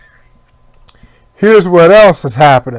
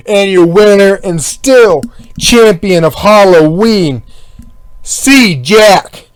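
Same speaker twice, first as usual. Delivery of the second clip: ring announcer; 3 semitones higher, slower than usual. Retold or imitated. Ring announcer introduces champion.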